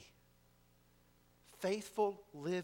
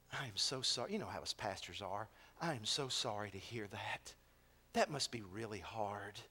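pastoral sympathy; 7 semitones lower, 4 dB quieter than usual. Retold or imitated. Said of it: "as pastorally and as empathetic as he could".

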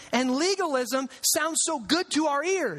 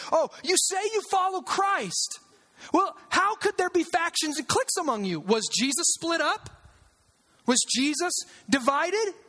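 mock-incredulous questions pitched higher; sarcastic Paul; 4 semitones higher than usual. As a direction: needle the church with mock disbelief. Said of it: "He's being sarcastic on them".

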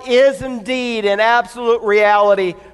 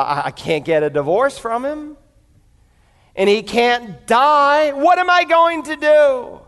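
rising, higher despair at the end; mild hopeless wail; desperate wife; 5 semitones higher than usual. Acted. Wife trapped in her marriage, desperate.

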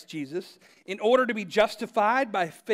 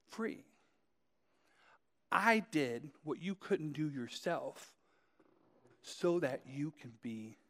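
soft, slow and fading on free; tender father; 2 semitones lower, 5 dB quieter, slower than usual. Acted. Father to his son as he goes to jail, soft and slow. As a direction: let it fall away gently like a blessing.

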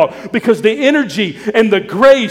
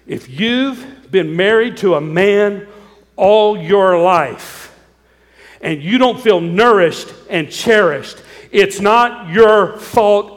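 slow, gentle and drawn out; lovingly, kindly; slower than usual. Real, not acted. Pastor gently telling wives it was never their fault, slow and kind. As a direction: ease it out kindly to hurting wives. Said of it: "I'm gonna say it lovingly".

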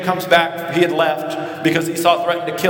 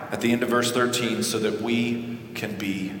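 hushed close; 7 semitones lower, 8 dB quieter than usual. Acted. Sermon's soft climactic close.

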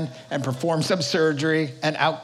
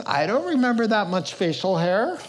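put-on little girl; 5 semitones higher than usual. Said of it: "And then she says".

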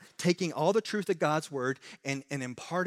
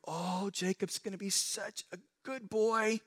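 mock God voice; 6 semitones higher, 5 dB quieter than usual. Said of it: "God did not look into the future and go".

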